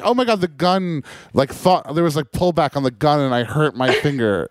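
whiny mock victim. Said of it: "I'd be like".

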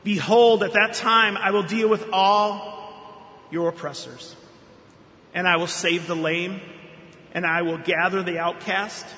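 solemn, measured Bible reading with bold openings; scripture reading. Acted. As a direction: proclaim the passage like a psalm. Reads Zephaniah scripture aloud.

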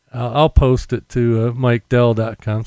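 popping P's on the mic; popping p sounds. Real, not acted. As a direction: plosive P's popping without a windscreen. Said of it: "Sorry about all the popping P's".

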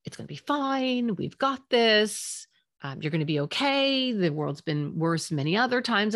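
put-on brushing off a child's worry with breezy reassurance; airy, cheerful "it's fine" parent; smoothing it over. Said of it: "is to smooth it over".

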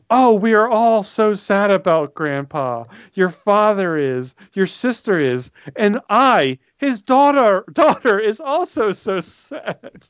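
creepy mother. Retold or imitated. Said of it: "It's spoken with, with psycho eyes".

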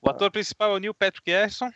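lisping through a gap in the teeth; missing tooth. Real, not acted. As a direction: talk around a broken tooth. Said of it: "ele não consegue pronunciar".

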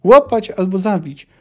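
loud, forceful command; roared order. A narrator's reading. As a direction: bellow the order to the men. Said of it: "ryknął Skellen".

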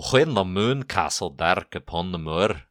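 put-on reciting a poem in a light Scottish accent; lightly Scottish lilt for an old poem. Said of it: "You challenged me to a Scottish accent".

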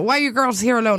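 half-hearted imitation of an Irishman; attempted Irish accent. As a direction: try a light, shaky-footed Irish accent. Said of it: "I can't do an Irish accent".

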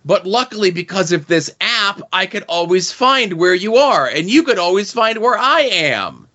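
lightly voiced sappy boyfriend; mocking boyfriend. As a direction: parody the boyfriend's dopey explanation. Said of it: "he's like".

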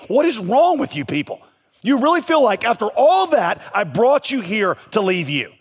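exasperated God. Acted. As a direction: throw up your hands as God and scold them.

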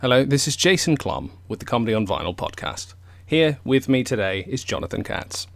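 lightly done British accent. Shown as a demonstration. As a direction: introduce the show in a British accent. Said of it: "tell me your name with a British accent".

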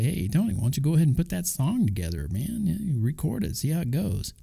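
lightly voiced fan egging him on; imagined listener.

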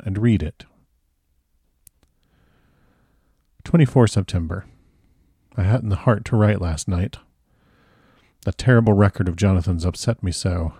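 measured audiobook reading of a journal; story narration. A narrator's reading. Narrator reading Mina Harker's journal to listeners, measured story narration. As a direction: read the diary entries out with gentle expression. Reads the novel aloud.

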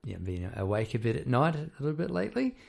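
hoarse croaky voice after surgery. Real, not acted. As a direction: talk through a croaky throat. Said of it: "if I sound a bit croaky".

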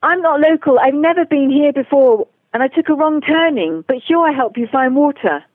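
lightly imitated Texas drawl. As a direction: retell it with a hint of Texan. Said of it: "in his Texas drawl".

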